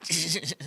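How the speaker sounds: soft, low laugh slipping out; stifled snicker. Retold or imitated. Son trying not to laugh at buried brother, stifled snicker. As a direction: imitate a laugh escaping while held in. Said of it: "I went like this".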